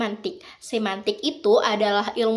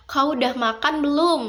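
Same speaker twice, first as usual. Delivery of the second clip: lightly imitating a Pontianak accent, higher pitched; 5 semitones higher than usual. Teacher imitates how a Pontianak speaker asks, light Pontianak accent. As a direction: ask "Kau udah makan belum?" the Pontianak way, pitch lifted. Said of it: "Orang Pontianak itu bilang".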